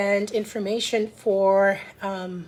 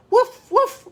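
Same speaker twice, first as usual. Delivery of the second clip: high, loud little woofs; dog bark; 12 semitones higher, 5 dB louder than usual. A narrator's reading. Titus the farm dog barking at the bus, high woofs. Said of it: "barked Titus".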